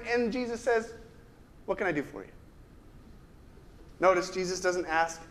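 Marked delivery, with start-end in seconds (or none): 1.7-2.3 gentle offer. Retold or imitated. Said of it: "Do you ever wonder what his tone of voice".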